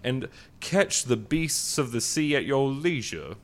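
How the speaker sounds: a genteel Southern gentleman voice, hammed up; Southern gentleman accent. Podcast host opens the show in a mock Southern accent. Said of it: "something to be said for that accent".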